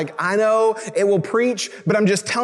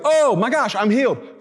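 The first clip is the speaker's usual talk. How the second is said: excited healed man; 3 semitones higher than usual. Retold or imitated. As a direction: blurt it out in acted amazement. Acting out healed lepers' joy.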